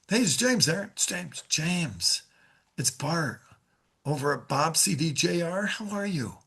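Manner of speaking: unhurried greeting with pauses between phrases; relaxed, spaced-out sales call opener; slowed-down phone opening. Shown as a demonstration. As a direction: take your time on the name, then soften. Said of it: "Slow down that first line".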